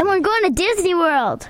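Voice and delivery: excited loud announcement; yelled. Real, not acted. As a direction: blurt it out with excitement. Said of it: "you kinda just yelled there".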